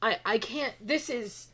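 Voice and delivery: loud, high, stammering frustration; overwhelmed outburst. Acted. Maple One gives up explaining to Maple, overwhelmed outburst. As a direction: blow up, stumbling over broken phrases.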